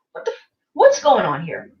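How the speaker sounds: low, full-voiced bafflement; baffled demand. Viewer reacting to master crying, baffled demand. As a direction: demand an explanation in disbelief.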